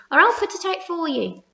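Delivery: high, loud threat; threatening shout. A narrator's reading. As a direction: yell the warning up at her. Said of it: "shouted the centipede".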